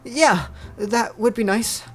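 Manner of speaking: high, slow character voice; young Noi. Acted. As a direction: pitch it up and take it slowly.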